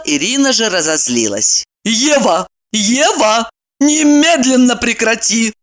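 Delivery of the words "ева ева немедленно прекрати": mild mock shout. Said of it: "закричала она".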